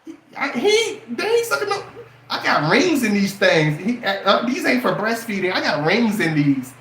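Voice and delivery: high squeaky mock woman, laughing through it; hammed-up high girly voice; mocking woman's voice. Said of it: "you gonna be like".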